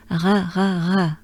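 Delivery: R exhaled with the tongue kept down; French R. Shown as a demonstration. Teacher drilling learners, French R exhaled. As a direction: breathe out through a French R. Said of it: "for the R sound and exhale".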